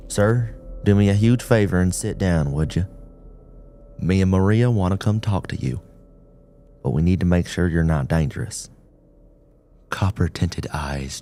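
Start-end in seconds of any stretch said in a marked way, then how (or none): 0.1-8.7 firm but kind officer, louder; gentle authority. Acted. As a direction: reassure while setting limits. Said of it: "his words a gentle authority".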